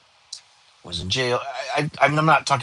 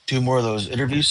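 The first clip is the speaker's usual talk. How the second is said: words stretched by a yawn. Real, not acted. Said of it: "I yawn a lot".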